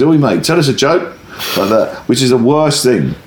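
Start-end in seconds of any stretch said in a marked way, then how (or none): 0.0-1.2 mock heckle pitched higher; heckling. Punter heckles the comic for a joke. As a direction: toss it from the back like a bored punter. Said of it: "he goes".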